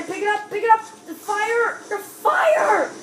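urgent call. Real, not acted. Urgent call during the game.

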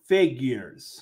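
FIGURES repeated evenly with a falling end; enunciated on request. Shown as a demonstration. Trying the word again for everybody, enunciated. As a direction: say "figures" carefully, ending on a fall. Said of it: "enunciate the word better".

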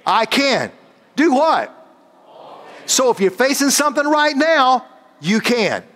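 high-pitched fervent preaching. Acted. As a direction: preach it up to the congregation. Preaching sermon.

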